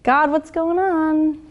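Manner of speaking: drawn-out weary complaint; slow groan. Shown as a demonstration. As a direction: sigh it out slowly. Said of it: "I put myself in this position".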